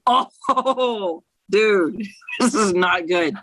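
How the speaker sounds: acting out her younger self reading bad news; alarmed younger self. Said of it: "I can imagine you doing that".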